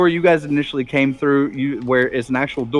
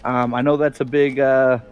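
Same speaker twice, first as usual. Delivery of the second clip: refined Bob; 3 semitones lower than usual. Acted. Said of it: "He sounds more refined".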